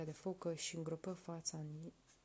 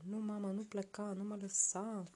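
pleading; 4 semitones higher than usual. Acted. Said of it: "imploră Uruk".

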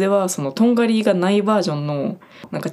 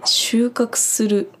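slow, whispered and higher; whispered slowly, pitched up; whispered word; 5 semitones higher, much slower than usual. Shown as a demonstration. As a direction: breathe the word out slowly like a title card. Announcing the next word.

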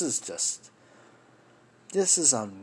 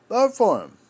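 high mocking repeat; 11 semitones higher, 8 dB louder than usual. A voice mocking voters, high and loud. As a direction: jump way up and louder, sneering.

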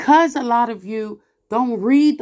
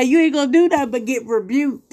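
laughing; faster than usual. Real, not acted. Laughing while scolding.

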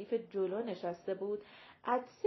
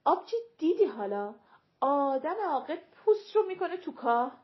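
loud, raised retort; speaking loudly; 5 semitones higher, 6 dB louder than usual. A narrator's reading. Siah answers the fake princess's slip, speaking loudly. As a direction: say it loudly for everyone to hear. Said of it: "سیاه بلند گفت".

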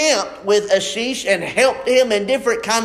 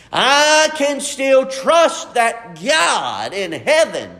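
slow, soaring preacher cry; preaching shout; 3 semitones higher, slower than usual. Real, not acted. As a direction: preach it out slowly and strong. Preaching climax.

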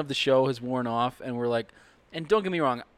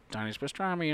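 silly voice; 7 dB quieter than usual. Retold or imitated. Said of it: "in this voice".

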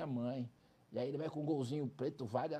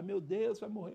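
mother's panic; 5 semitones higher, 4 dB louder than usual. Retold or imitated. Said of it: "Ela começou a chorar".

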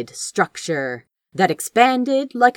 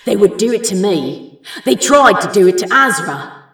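rising fury; 4 dB louder, faster than usual. A narrator's reading. Crow's furious inner thoughts.

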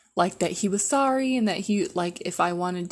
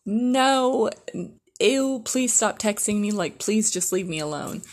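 disgusted refusal; 4 semitones higher, slower than usual. Retold or imitated.

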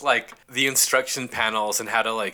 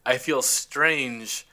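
slow, drifting sci-fi crewman; dazed alien crewman; slower than usual. Retold or imitated. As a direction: sound like you're losing focus. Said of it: "Other cat goes".

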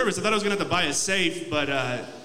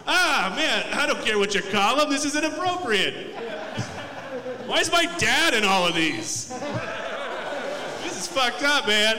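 retold outrage; 5 semitones higher than usual. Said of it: "I'm like".

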